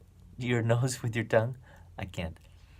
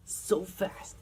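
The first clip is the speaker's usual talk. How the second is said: whisper; 8 semitones higher, 3 dB quieter than usual. Shown as a demonstration. Cheetah running, whispered.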